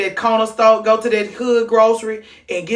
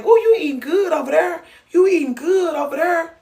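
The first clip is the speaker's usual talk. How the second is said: mock praise; 7 semitones higher than usual. Praising his plate.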